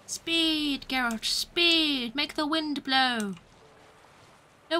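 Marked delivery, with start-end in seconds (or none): 0.1-3.3 long drawn-out cries of encouragement; playful urging. Pretend. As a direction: stretch out the words to urge on the sails.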